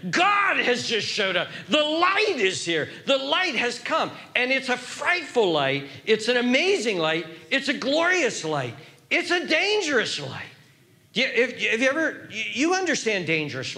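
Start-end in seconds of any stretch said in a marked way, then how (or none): 0.1-10.5 sudden realization. Acted. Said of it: "they suddenly realized what's going on".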